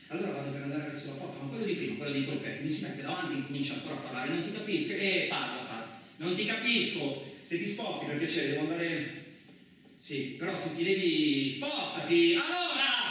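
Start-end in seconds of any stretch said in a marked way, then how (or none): 4.3-9.2 to the man blocking the door, irritated. Acted. 10.0-13.1 high, loud, shouting him aside; to the stranger in the way, shouting; angry shout. Acted. Quarrel peaks.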